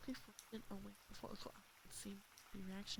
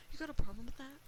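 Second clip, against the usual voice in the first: higher, louder repeat of the threat; loud challenge; 5 semitones higher, 10 dB louder, faster than usual. A narrator's reading. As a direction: press the menace, rising. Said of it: "Uncle Al repeated".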